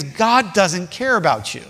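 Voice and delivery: slow, spelled-out put-down; with authority. Retold or imitated. Crowd to the blind beggar, slow and with authority. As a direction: deliver it slowly, as a mild pronouncement. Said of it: "they were doing it with authority".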